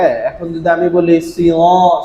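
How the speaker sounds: সিও said slowly without touching the palate; wrong sio sound. Shown as a demonstration. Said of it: "লাগে না".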